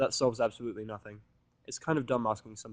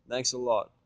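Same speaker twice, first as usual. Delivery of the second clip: sarcastic; 4 dB louder, slower than usual. Acted. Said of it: "I return sarcastically".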